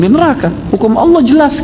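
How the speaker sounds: retold stern verdict, pitched high; firm verdict. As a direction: declare it as settled law. Preacher voices the Prophet's verdict.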